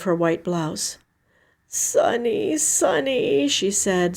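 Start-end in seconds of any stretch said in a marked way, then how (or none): 1.7-3.5 hushed soothing call. Acted. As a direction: comfort her with the name. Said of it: "soothing me now".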